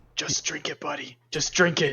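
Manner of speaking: very hushed, soft breathy whisper. Speaking aside to a companion over a beer: whispering. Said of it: "I'll kind of whisper to him".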